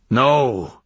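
a touch of an outcry; crying out. A narrator's reading. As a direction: cry it out as an old hermit. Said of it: "cried the hermit".

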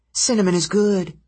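high-pitched little harpy declaring her verdict; harpy pronouncement. A narrator's reading. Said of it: "she pronounced".

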